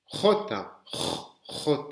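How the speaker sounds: the letter J scraped from deep in the throat; J raclé au fond de la gorge. Shown as a demonstration. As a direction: rasp the J far back in the throat. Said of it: "c'est le J profond de la gorge".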